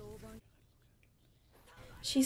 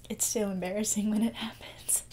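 tearful whisper. Real, not acted. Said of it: "I knew I was gonna cry".

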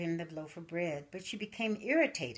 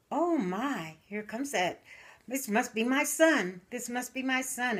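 hopeful excitement; 6 semitones higher, 5 dB louder than usual. Acted. Mother sees a figure coming.

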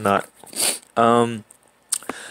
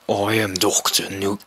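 low villain voice, attempted; deep voice; 4 semitones lower, 3 dB quieter than usual. Retrying the villain's introduction, deep voice. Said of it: "how do you do a deep voice?".

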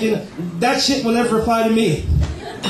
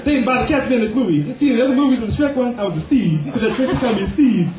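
Eddie Murphy as Donkey; 3 semitones higher than usual. Acted. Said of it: "Eddie Murphy as the random donkey".

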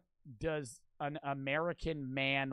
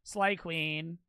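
hype cheer; 4 dB louder, much slower than usual. Real, not acted. Cheering on the video's heroine.

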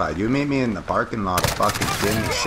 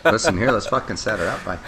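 put-on Canadian hoser accent; 3 semitones higher than usual. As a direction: play it like a small-town Canadian hockey guy. Hoser banter while gaming.

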